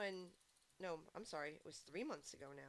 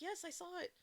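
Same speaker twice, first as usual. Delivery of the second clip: higher, fast, laughing; laughing retort; 10 semitones higher, 4 dB louder, faster than usual. Retold or imitated. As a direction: rush it out, laughing. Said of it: "I was like".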